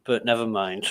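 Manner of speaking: talking while eating rice; words round a mouthful of rice; mouth full. Real, not acted. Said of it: "suck rice from between my teeth".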